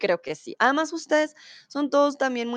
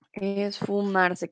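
"esfumarse" drawn out slowly, every syllable clear; slowly spelled out; much slower than usual. Shown as a demonstration. Teacher repeats the new word slowly for students, slow. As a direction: stretch "esfumarse" out slowly so students catch each sound.

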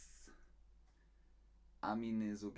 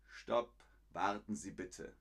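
polite, low-key request; very friendly; 3 semitones lower than usual. Shown as a demonstration. Teacher correcting a blunt stop into a request, very friendly. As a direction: ask courteously, without pressure. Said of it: "sehr freundlich".

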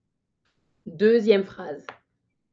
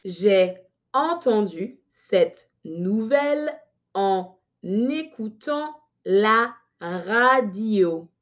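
slightly faster dictation; slower than usual. Shown as a demonstration. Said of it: "un peu plus rapidement".

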